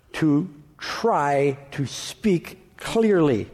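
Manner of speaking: "clearly" drawn out very slowly, every sound articulated; slow right down and carefully shape each word; slow careful speech. Shown as a demonstration. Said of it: "how hard it has been … to try to speak clearly".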